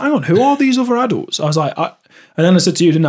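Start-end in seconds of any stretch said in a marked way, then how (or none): 0.0-1.4 mildly baffled, pitch jumps up; higher-pitched mock confusion; baffled retelling. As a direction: retell a puzzled reaction, higher. Retelling own baffled reaction.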